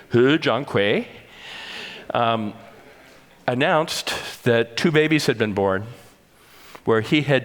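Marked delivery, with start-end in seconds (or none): 0.1-1.1 Hu Zhangkui said with a careful try at Mandarin tones and sounds; attempted Chinese pronunciation. Shown as a demonstration. Lecturer apologizing for his accent, saying Hu Zhangkui in hesitant attempted Mandarin. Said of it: "please forgive my terrible accent".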